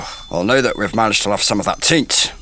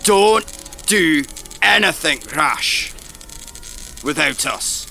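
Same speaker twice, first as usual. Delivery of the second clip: urgent warning; 4 semitones higher than usual. Acted. Companion warns friends leaving on their quest, urgent call. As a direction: call out the warning as they leave.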